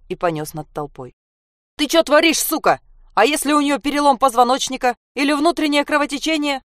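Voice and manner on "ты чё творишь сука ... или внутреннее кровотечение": higher, loud outraged shout; furious yell. Acted. The policeman yells at the man carrying the girl.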